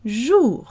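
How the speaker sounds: French "jour", oo vowel then a light R; French R heard. Shown as a demonstration. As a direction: let the R be heard at the end of "jour". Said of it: "You can hear the R".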